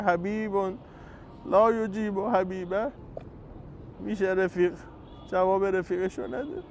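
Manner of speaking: soft, loving complaint, slowed on لا یجیب; tender reproach. Shown as a demonstration. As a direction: plead gently like a hurt friend. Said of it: "ما هم باید به امام حسین بگیم".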